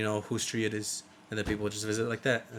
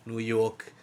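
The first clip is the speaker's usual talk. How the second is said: put-on New York accent. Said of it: "to perfect the accents".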